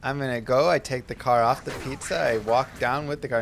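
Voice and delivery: lightly voiced lisping child; a hint of imitated toddler speech; little kid lisp. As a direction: narrate each step like a small kid. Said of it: "It's more just like the little kid lisp".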